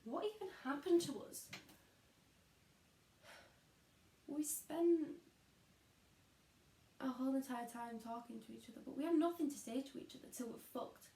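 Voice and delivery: bitter disillusionment. Acted. Bitter questioning of wasted lives.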